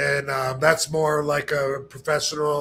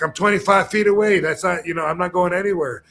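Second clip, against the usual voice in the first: imitating the auditor; 3 semitones higher, 4 dB louder, faster than usual. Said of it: "he'll be like".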